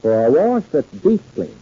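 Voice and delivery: calm radio sign-off voice; old radio announcer. Acted. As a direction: wrap up the show warmly. Announcer closes the episode.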